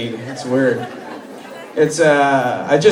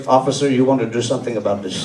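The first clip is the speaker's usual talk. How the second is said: imitating deli clerk; 6 semitones lower, 3 dB quieter, faster than usual. Deli guy asks comic for help.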